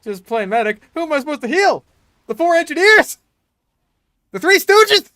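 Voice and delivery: put-on very high, loud squeaky girl voice. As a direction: squeal it like a cutesy gamer girl. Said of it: "I'm the best e-girl voice".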